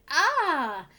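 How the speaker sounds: loud fierce demand, opening on a sharp Ah; hungry aminal demanding food fiercely; fierce cry. Acted. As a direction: bark out the question like a hungry beast. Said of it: "looked around fiercely and cried".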